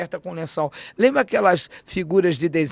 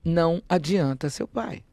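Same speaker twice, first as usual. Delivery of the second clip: slowly repeating the threat to herself; slow echo; slower than usual. Retold or imitated. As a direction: let the words sink in, slow and plain. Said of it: "porque eu entendi o recado".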